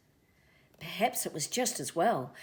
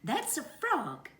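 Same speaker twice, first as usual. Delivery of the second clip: mother kiwi; 9 semitones higher, 4 dB louder, slower than usual. A narrator's reading. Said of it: "said Mother Kiwi".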